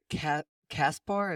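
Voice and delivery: Kaspar tried slowly, after a false start; tentative pronunciation. Real, not acted. Host checking a guest's name, Kaspar said tentatively. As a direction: sound out Kaspar carefully, unsure of it. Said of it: "how to say it".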